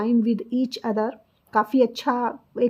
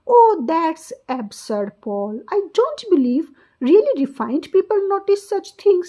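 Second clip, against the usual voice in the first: Catherine; 4 semitones higher, 3 dB louder, much slower than usual. Acted. Catherine's line read in role.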